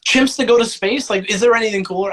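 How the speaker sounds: high-pitched, eager sales pitch; mock-amazed at how cool it is; playful enthusiasm. Real, not acted. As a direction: pitch it way up, bubbling over. Mock-enthusiastic defence of his film.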